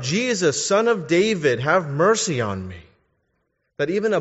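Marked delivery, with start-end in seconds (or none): 0.0-2.8 retold cry for mercy. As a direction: call out like the blind man begging. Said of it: "he cried out".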